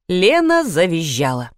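plain reading voice

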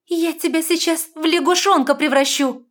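high, loud furious heroine voice; fairy threatening the intruder, shrill with anger; angry threat. A narrator's reading. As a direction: threaten to turn him into a frog. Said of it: "начиная злиться".

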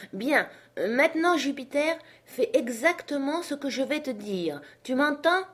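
high, insistent voice, rising at the end; commanding master. Acted. Master demands Jupiter's full attention, insistent. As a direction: call up precise orders.

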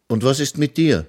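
put-on eager little boy proclaiming; young hero announcing. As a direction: tell the children the wizard is dead. Fritz asks a boy.

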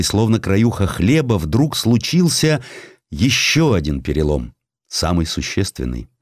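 ordinary delivery

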